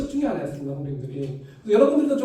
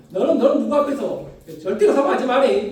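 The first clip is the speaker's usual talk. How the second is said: stern father; 3 semitones higher, 5 dB louder than usual. Retold or imitated. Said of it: "저희 아버지도 저한테".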